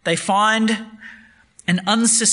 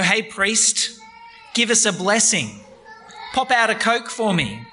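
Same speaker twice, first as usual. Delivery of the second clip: mock greedy demand; 3 semitones higher than usual. People treating God like vending machine.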